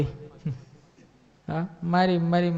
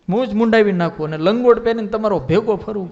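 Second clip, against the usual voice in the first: boastful vow; 4 semitones higher, 8 dB louder than usual. Acted. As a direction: swear it like a proud warrior staking his moustache. Sura Bapu repeating his boast.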